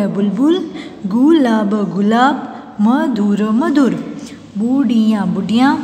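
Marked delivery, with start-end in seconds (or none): 1.1-1.7 गुलाब sounded out in parts; syllable by syllable. Shown as a demonstration. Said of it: "फिर ये सारे बोलने". 2.8-3.4 मधुर sounded out in parts; syllable by syllable. Shown as a demonstration. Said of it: "फिर ये सारे बोलने". 4.6-5.2 बुढ़िया with each syllable held. Shown as a demonstration. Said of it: "फिर ये सारे बोलने".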